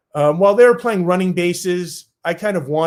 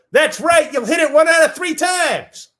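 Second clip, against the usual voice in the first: put-on much higher, cheery old legend voice; high approving Ted; 12 semitones higher than usual. Old Ted Williams approving the skinny kid, high and chirpy. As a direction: squeak out the praise like a delighted old man.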